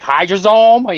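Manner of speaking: high-pitched questioning echo; mock puzzled query. AI checking a misheard word, mock puzzled.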